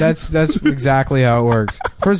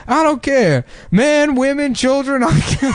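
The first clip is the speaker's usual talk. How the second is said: high frantic soldier voice; 12 semitones higher than usual. Retold or imitated. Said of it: "he's like".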